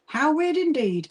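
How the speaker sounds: hamming up the surprise a little; drawn-out mock wonder. Repeating reply to a viewer.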